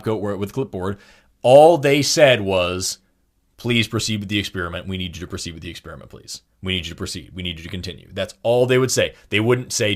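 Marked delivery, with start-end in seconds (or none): 3.6-8.1 soft, even request that never pushes; imitating a calm experimenter, quiet and unhurried; calm, not forceful. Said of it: "They wouldn't be forceful, violent, angry".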